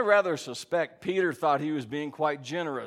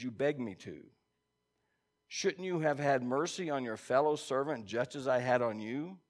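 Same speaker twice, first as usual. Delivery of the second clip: measured reading of the parable to the congregation; scripture reading. Acted. Pastor reading the parable aloud to his church, in a measured tone. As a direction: read the story out steadily, like a lesson.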